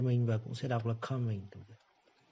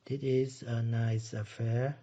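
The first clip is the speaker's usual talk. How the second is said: slow model reading; slower than usual. Shown as a demonstration. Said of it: "Như vậy là gì".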